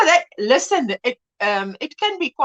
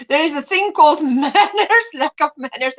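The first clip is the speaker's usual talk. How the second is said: laughing; 4 semitones higher than usual. Real, not acted. Laughs while saying it.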